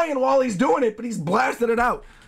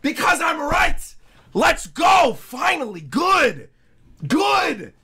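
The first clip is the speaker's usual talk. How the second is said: real gloating cheer; triumphant gloating; 6 semitones higher, slower than usual. Real, not acted. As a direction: rub it in to the doubters.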